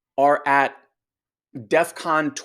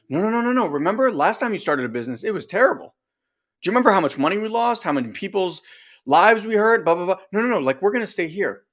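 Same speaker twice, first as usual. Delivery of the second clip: scolding inner part; 5 semitones higher, faster than usual. Retold or imitated.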